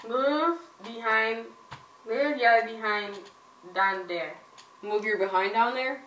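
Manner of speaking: slow, garbled through a mouthguard; wearing a mouthguard. Real, not acted. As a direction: speak around the mouthguard. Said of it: "it's hard to understand".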